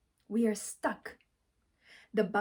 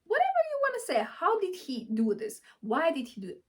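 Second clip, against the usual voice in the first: mock angry rant; 4 semitones higher, 3 dB louder than usual. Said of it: "I'm saying".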